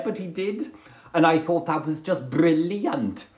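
sing-song go at a Welsh accent; attempted Welsh accent. Shown as a demonstration. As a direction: have a try at Welsh. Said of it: "try for you a bit of Welsh".

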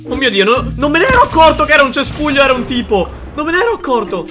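high, fast amazed exclamation; startled realization; surprised. Real, not acted. Surprised bush was a player.

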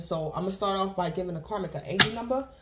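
slightly out of breath. Real, not acted. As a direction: talk while catching your breath. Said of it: "Oh, I had to catch my breath".

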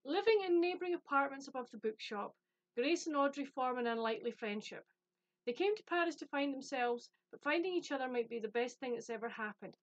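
lifted openings, even narrator's read; blurb read-aloud. Acted. Reading the premise to viewers, storytelling read-aloud. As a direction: read it like a book trailer.

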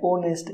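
"ऑनेस्ट" said with the H silent. Shown as a demonstration. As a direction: begin "ऑनेस्ट" straight on the O sound. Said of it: "एच silent रहता है". ("ऑनेस्ट", एच silent रखकर)

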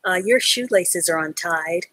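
gentle, polite remark; nice way. Shown as a demonstration. Teacher showing the nice way to say it. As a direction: soften it kindly. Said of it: "that would be a nice way to say it".

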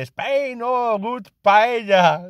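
lightly hammed foreign visitor accent; mock English tourist. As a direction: drag out the words like a tourist imitation. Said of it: "me dice".

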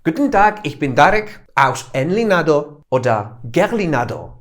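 hammed-up German accent; mock German greeting. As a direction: play a jokey German introducing himself. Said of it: "wchodzi niemiecki".

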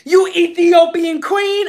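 hammed-up old man in bliss; a mock groan of pleasure from an old client; creepy old man.

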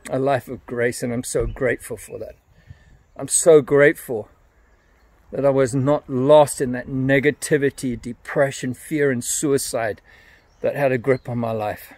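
quiet, emotion welling up, with a soft laugh; getting emotional. Real, not acted. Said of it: "I'm getting emotional now".

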